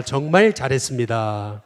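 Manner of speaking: preacher leading a call-and-response; slow call to repeat. Shown as a demonstration. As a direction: declaim it slowly so everyone can repeat it. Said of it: "또 한번 해보겠습니다".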